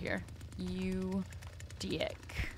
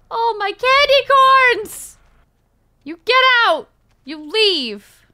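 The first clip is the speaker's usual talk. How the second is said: much higher, louder wail; anguished wail; 9 semitones higher, 10 dB louder than usual. Real, not acted. Player wails losing candy corn, high and loud. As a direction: mourn the lost candy.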